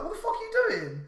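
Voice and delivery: high, laughing mock yell; half-laughing as he retells yelling at him; retold yell. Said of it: "I fucking was like".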